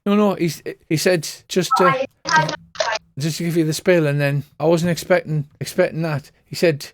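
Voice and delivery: a nervous fortune-teller who can't get her words out; flustered seer. Acted. Seer insisting to the party she had no idea what happened, flustered.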